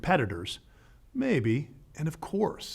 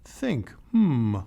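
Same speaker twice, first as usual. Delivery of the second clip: motto read. Retold or imitated. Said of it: "known for its longtime motto".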